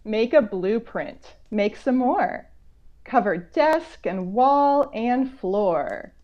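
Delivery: slow, curious read-aloud; reading a picture book. Acted. Author reading to children, slow and curious. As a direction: draw the kids into the mystery.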